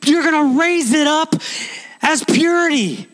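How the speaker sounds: a lifted, heartfelt prayer voice. Acted. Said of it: "bring them into the light and say".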